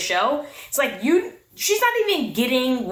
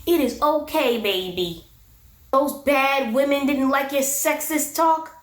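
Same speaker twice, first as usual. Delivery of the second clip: coddle him, teasing; a teasing imitation of a woman babying her man; mock babying; slower than usual. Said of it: "he wants her to baby him".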